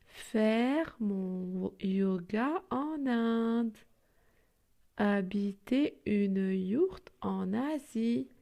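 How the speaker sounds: slow, careful recital of a poem; measured poem reading. Acted. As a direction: read each line slowly for children. Reads the poem slowly.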